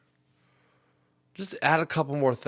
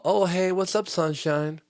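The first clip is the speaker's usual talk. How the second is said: higher, louder, sing-song mock greeting; mock flirty teller; 7 semitones higher, 4 dB louder, slower than usual. Teller greeting the guy behind him, higher mock flirty. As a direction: gush like a teller greeting a favourite.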